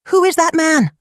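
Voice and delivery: high, sharp angry question; shocked stepmother. A narrator's reading. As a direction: demand it in alarm. Stepmother stares angrily.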